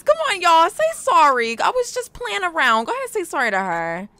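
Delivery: egging them to make up; excited urging. Real, not acted.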